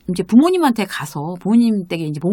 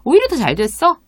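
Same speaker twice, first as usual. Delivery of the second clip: higher-pitched, easy brush-off; acted nonchalance; 6 semitones higher, 3 dB louder than usual. Reassuring a companion about finding another restaurant, unbothered. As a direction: shrug off the setback lightly. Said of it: "그렇게 아무렇지도 않게".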